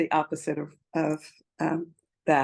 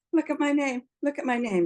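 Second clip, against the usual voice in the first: excited; 8 semitones higher than usual. Retold or imitated. Eagerly showing name badge.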